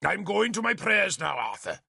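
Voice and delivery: damn them from the pulpit; heavy curse. A narrator's reading. Bishop delivers a heavy curse.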